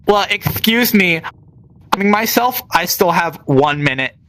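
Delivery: mildly indignant, sassy comeback; sassy back talk. Retold or imitated. Female trainee answers back her instructor, sassy. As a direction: imitate a trainee talking back with a bit of sass. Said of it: "said it like that with the sass".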